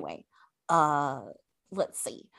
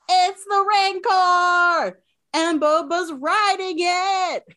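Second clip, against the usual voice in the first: much higher, louder, slow announcement; dramatic reveal; 8 semitones higher, 3 dB louder, slower than usual. Retold or imitated. Telling co-hosts the Rancor arrives, in an excited, slow, loud voice. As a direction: announce it like a movie-trailer reveal.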